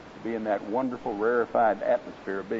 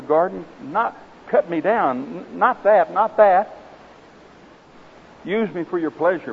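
desperate pleading; 5 semitones higher than usual. Acted. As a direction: beg in growing alarm, voice climbing. Bamboo pleads against being cut.

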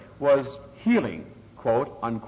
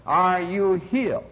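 faith healer's demand; 5 semitones higher, slower than usual. Retold or imitated. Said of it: "a little bit more ... loudly".

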